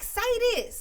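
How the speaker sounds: mocking kids' voice. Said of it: "And they be like".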